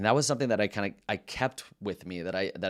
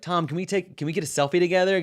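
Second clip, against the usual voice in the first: much higher, fast, sing-song fake-friendly teen; mocking sweetness; 9 semitones higher, 5 dB louder, faster than usual. Student teasing his teacher for a selfie, high and mocking. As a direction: beg for a selfie with mock affection.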